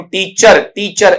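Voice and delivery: टीचर with a sounded final r; common mispronunciation. Shown as a demonstration. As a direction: say टीचर as "tee-char", r audible. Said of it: "ऐसा नहीं होना चाहिए।".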